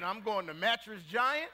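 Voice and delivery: loud, laughing declaration; laughing retort. Retold or imitated. Customer laughing back at the salesman over the price, loud. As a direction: laugh it out in disbelief.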